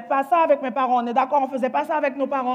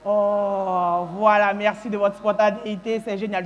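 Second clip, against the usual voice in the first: long drawn-out "oh", then dry thanks; mock audience reaction; 3 semitones lower, slower than usual. Shown as a demonstration. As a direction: show the crowd how to react, deadpan. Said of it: "quand je dis ça, vous faites".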